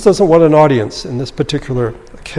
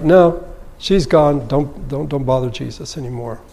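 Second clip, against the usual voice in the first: cold-hearted dismissal. Retold or imitated. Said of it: "I see this rather cold-hearted".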